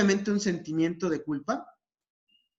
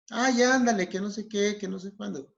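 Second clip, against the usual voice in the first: higher, wheedling start that tails off; insistent pleading; 4 semitones higher than usual. Acted. Pushy smoker pestering after being refused, insistent. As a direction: nag them in a raised voice. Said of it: "esta persona que está siendo insistente".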